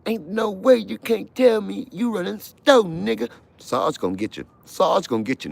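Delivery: high, loud barking guard; mock guard yell. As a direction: bellow like a prison guard. Guard yelling during search.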